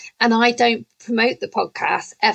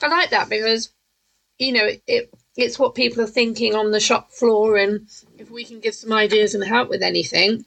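talking while chewing a cookie; mouth full. Real, not acted. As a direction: speak through a mouthful of cookie. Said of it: "I'm eating a triple chocolate cookie".

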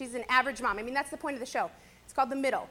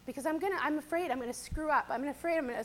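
crying; 4 dB quieter than usual. Real, not acted. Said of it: "see, I'm crying".

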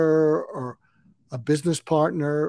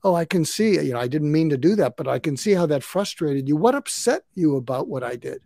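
calm validating. Shown as a demonstration. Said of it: "you don't take issue with it".

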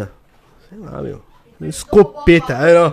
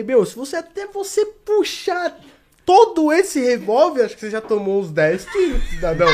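teasing mockery; 9 semitones higher, 5 dB louder than usual. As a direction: stretch it out to tease him. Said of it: "Mas fico brincando ele".

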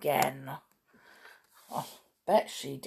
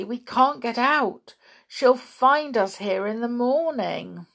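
worried pixie; 6 semitones higher, 4 dB louder than usual. A narrator's reading. Pixie panics about spell.

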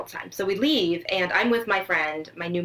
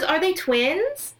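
high, slow, wide-eyed "Are they twins?"; clueless celebrity question; 8 semitones higher, much slower than usual. Retold or imitated. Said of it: "She goes".

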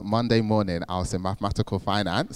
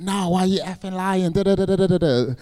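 higher mock-incredulous friends; mocking disbelieving lads; 10 semitones higher than usual. Imitating his friends accusing him of lying, mock-incredulous. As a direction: mimic the friends scoffing in disbelief.

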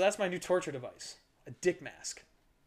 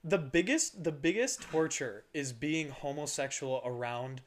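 slow, stoned drawl; slower than usual. Real, not acted. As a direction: speak slowly like you're high. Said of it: "dude, I'm so high".

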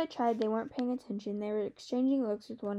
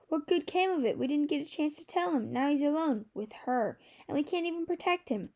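anguished outburst; 5 semitones higher than usual. A narrator's reading. Brother's anguished outburst in argument.

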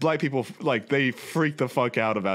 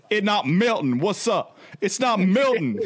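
higher-pitched mock bewilderment; mock baffled bystander; 7 semitones higher, 4 dB louder, slower than usual. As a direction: play an astonished bystander, hammed-up. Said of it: "it's black people gonna be like".

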